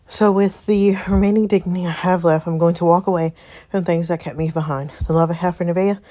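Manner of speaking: slightly breathless reading; winded, stumbling through the words; out of breath. Real, not acted. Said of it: "Sorry, y'all, I'm out of breath".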